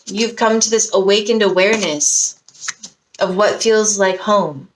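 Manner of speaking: slow, stretched-out words; drawn-out, half-dreamy delivery; dreamy drawn-out phrasing. Real, not acted. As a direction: let the phrase hang slowly. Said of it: "I don't know why I said it like that".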